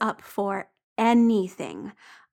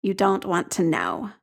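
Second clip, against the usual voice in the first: grim; 3 semitones lower than usual. Acted. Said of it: "Jamie says grimly".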